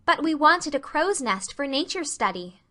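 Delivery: put-on keen young girl making her case; eagerly explaining. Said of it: "explained Anne".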